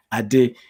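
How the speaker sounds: "Ade" repeated with a short final vowel, "ah-deh"; correct native pronunciation. Shown as a demonstration. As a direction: say "Ade" as "ah-DEH", without a glide. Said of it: "the correct pronunciation is".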